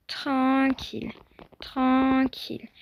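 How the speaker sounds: slow, drawn-out soothing word; calm the horse down gently; slow hushing to a nervous horse. Real, not acted. Calming a skittish horse.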